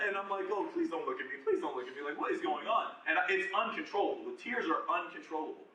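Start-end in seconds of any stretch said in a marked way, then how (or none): 0.5-2.9 higher-pitched, mock-desperate plea; retold panicked pleading. Speaker recalls hoping nobody sees him cry, mock-panicked pleading. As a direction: beg in playful retold panic.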